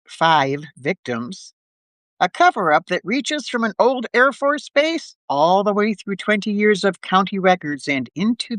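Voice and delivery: measured recap read aloud; narrator's recap with deliberate pauses; story narration. Acted. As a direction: read a detective serial's story-so-far to listeners.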